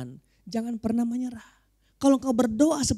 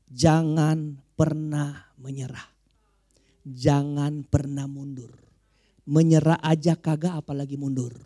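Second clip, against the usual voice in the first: slow, lowered, measured exhortation; slow preaching; 6 semitones lower, slower than usual. Real, not acted. Preacher urging the congregation never to retreat, slow preaching. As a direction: press it home slowly in a low voice.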